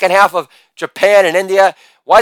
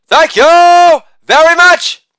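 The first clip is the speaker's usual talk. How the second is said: high, slow crooner-style thank you; 7 semitones higher, slower than usual. Acted. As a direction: drawl it like a famous crooner. Crooner-style sign-off.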